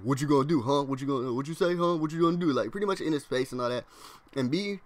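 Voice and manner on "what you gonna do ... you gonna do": pushy mock taunts, pitch jumping up; punking him. Class clown gets in the kid's face, trying to punk him. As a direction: taunt him in quick repeated jabs. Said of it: "start trying to punk him".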